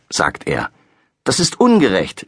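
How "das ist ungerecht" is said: higher, indignant complaint; girl scolding dad. A narrator's reading. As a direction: grumble at the unfairness. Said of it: "schimpft Laura".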